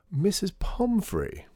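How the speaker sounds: high, drawn-out hail; slow, high-pitched gushing welcome; effusive greeting. A narrator's reading. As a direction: greet her theatrically, stretching the name. Artie effusively greets another table.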